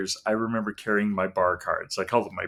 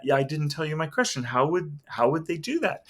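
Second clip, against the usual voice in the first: higher, baffled repeated question; puzzled disbelief; 5 semitones higher than usual. Retold or imitated. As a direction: mimic a bewildered skeptic. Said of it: "he was just stunned".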